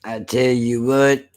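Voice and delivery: lightly voiced Southern simpleton; dumb-people voice. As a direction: put on a mild dim-witted Southern voice. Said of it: "that's my voice for a lot of, uh, dumb people".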